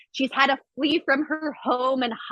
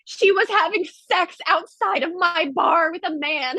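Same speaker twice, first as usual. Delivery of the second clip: mimicking the accuser; 7 semitones higher than usual. Quoting the accuser in court.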